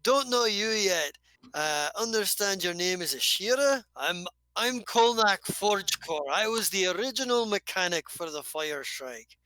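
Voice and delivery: hearty dwarf greeting a stranger; lightly voiced dwarf introduction.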